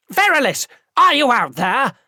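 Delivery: booming high call through a door; thundering call. A narrator's reading. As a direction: roar it down the hall. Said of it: "rolled out through the open door like thunder".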